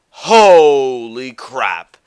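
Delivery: slow, low, drawn-out disbelief; weary exasperation. Real, not acted. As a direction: drag the words out, fed up. Worn-out despair ending the rant.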